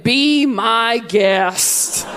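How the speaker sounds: slow, drawn-out mock politeness; deadpan offer. Dad with a knife, mock-politely slow. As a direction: draw it out like a calm invitation. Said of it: "and went".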